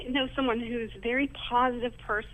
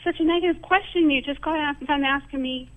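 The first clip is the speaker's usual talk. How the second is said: higher and louder, challenging her; retold indignant question; 5 semitones higher, 5 dB louder than usual. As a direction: confront a friend, pitch up and push. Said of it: "so today I asked her".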